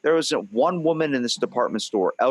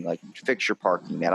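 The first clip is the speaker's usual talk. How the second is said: calm reasonable; 5 semitones lower, 3 dB quieter than usual. Retold or imitated. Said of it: "talk to you like a reasonable thing".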